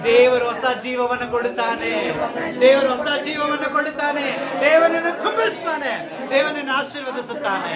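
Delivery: insistent pulpit proclamation, rising in pitch; building preacher's refrain; rousing preaching. Real, not acted. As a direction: drive each promise home to the congregation. Proclaims promises to congregation.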